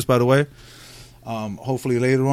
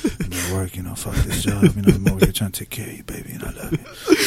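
low, lightly mumbled husband voice; mock husband voicemail; 5 semitones lower than usual. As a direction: imitate leaving a sweet, offhand voicemail. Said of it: "you're leaving somebody voicemails".

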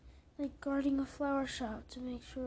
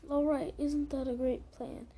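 bright, louder upbeat pitch; cheery rhetorical question; 7 dB louder than usual. Acted. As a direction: sell the plan with forced cheer.

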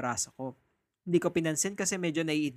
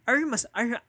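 mock British accent; 6 semitones higher, 4 dB louder than usual. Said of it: "With accent yan".

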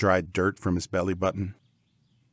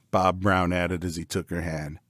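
ordinary delivery, nothing marked

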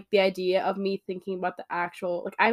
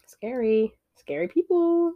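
high, loud mock fright on scary people; mock scared voice; 3 semitones higher, 6 dB louder, slower than usual. Sister jokes to sister that therapists are scary, high mock fright. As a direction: ham up the fear of therapists.

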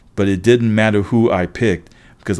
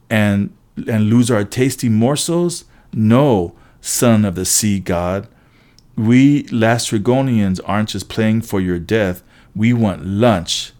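hungry giant. Acted. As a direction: gloat over a tasty meal. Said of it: "Joe Bob growled at me".

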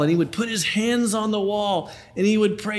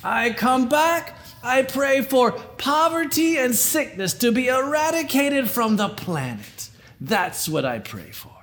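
put-on Yiddish accent; 5 semitones higher than usual. Old Jewish man in joke.

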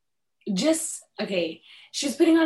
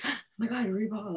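awed gasp; 8 dB quieter than usual. Retold or imitated.

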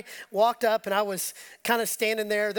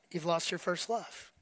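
low, hushed rebuke, acted out; grave reproach; 6 semitones lower, 8 dB quieter than usual. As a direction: drop low and soft to deliver the sad verdict. Jesus' reproach after praise.

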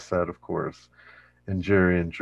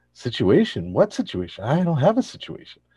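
rising, louder indignant denial; mock defensive denial; 7 semitones higher, 5 dB louder than usual. Elaine playing innocent about her situation, mock indignant. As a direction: play dumb, getting shriller. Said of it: "she's like".

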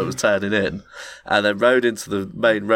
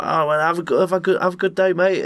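higher, overly friendly send-off; mock cheery; 10 semitones higher than usual. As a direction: soothe him out the door. Narrator quoting himself, appeasing.

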